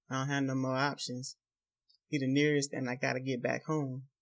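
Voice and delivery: breathless after running; words between heavy breaths. Acted. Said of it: "Heavily out of breath".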